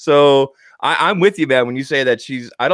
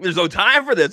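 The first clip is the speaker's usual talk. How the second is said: imitating Bran; 7 semitones higher than usual. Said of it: "He's like".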